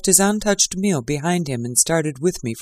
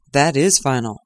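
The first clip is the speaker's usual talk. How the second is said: gloomy echo. Acted. Watson echoing Lestrade, lightly voiced resignation. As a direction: echo it with a sinking heart. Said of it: "I voluntarily echoed".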